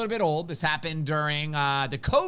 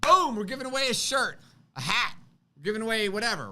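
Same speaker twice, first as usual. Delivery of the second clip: bold and confident; 4 semitones higher, faster than usual. Shown as a demonstration. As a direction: announce it boldly, no doubt. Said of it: "You just say it boldly".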